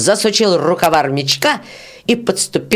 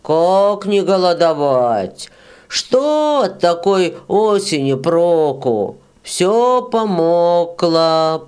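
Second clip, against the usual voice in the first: slow mournful lament; much slower than usual. Acted. Bearded peasant laments.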